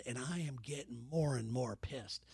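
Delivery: a seething whisper; whispered fuming aside; whispered anger. Acted. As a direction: hiss it under your breath, barely voiced. Anger told in a hush.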